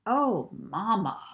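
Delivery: slow, crooning mock commercial voice; playful mock advert actor. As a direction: ham it up like a cheesy ad. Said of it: "pretending he was in one of their favourite TV adverts".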